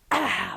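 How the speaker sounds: sudden "ah" like an eruption; mock eruption cry; volcano burst. Shown as a demonstration. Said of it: "like a volcano".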